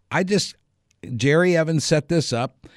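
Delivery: high-pitched mock pleading; flustered protest. Comedian explaining who set it up, flustered protest. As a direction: imitate a flustered excuse, voice pushed high.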